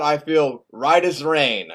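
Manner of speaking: slow, drawn-out assurance; self-assured. Acted. Bob insists he has no side effects, self-assured. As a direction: stretch the words out contentedly.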